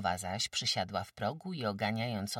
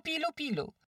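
calling goslings, falling. A narrator's reading. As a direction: let the call fall away. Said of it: "nawoływała gąsięta".

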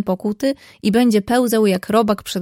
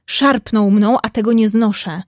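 indignant. Acted. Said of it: "mruknął Artur z oburzeniem".

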